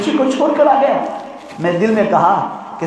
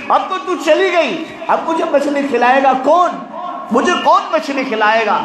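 put-on child's anguished cry; 4 semitones higher than usual. Boy crying for his dead mother.

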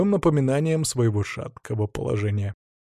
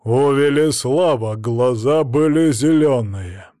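louder, slow gruff growl; 6 dB louder, slower than usual. A narrator's reading. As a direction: growl it through the teeth. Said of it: "рыкнул Владимир".

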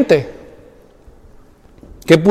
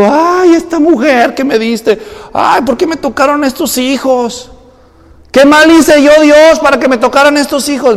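raised, whiny complaint to God; mock whining; 5 semitones higher than usual.

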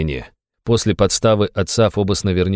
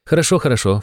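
placating; 6 semitones higher than usual. A narrator's reading. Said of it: "в примиряющем жесте".

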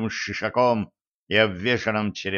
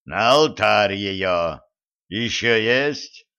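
god of war voice; 2 semitones lower, much slower than usual. Acted. Mars demands offerings.

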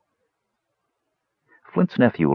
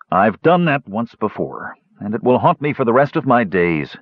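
voice breaking; 4 semitones higher than usual. Acted. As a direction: confess it with a touch of breaking. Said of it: "Basalt's voice broke".

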